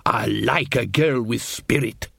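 slow, lightly voiced suave dwarf; smooth dwarf charmer. Casanunda charming Nanny Ogg, slow and suave. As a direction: purr it like a mild seducer. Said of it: "adjusted his wig happily".

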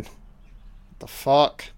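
drawn out, very slow and stunned; slow what the fuck. Real, not acted. Reacting to a horror film scene, dragged out very slowly. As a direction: stretch every word in disbelief.

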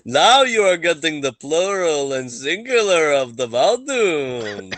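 high, amused teasing voice. Acted. Joking after the chant.

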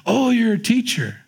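high bright "Oh" of mock surprise. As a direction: play the curious stranger, pleasantly surprised. Mimics stranger on plane.

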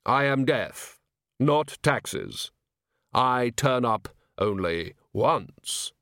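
very slow, solemn Death; drawn-out, hollow reaper voice; grim reaper voice. Acted. Death replies.

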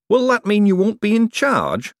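worried, pitch up; nervous young man. A narrator's reading. Hubert anxious.

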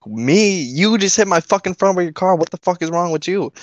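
high-pitched, incredulous comeback, retold; indignant retort. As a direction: fire back in mock outrage, pitch jumping up. Acted retort in a yelling argument.

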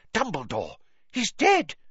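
high horrified cry. A narrator's reading. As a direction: cry out in horror at the body. Fudge discovers Cedric dead.

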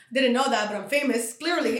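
loud playful brag; mock boasting. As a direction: brag it loudly as a joke. Boasting jokingly.

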